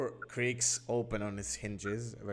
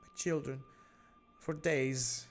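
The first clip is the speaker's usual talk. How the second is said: a higher, worried mother's voice; anxious captive mother; 4 semitones higher than usual. Acted. Captive mother tells the adventurers how she survived, higher and anxious. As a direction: hurry through her story, frightened.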